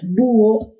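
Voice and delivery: búho as BÚ-o; stress on the ú. Shown as a demonstration. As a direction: put the force on the ú of búho. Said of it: "se puede pronunciar con mayor intensidad".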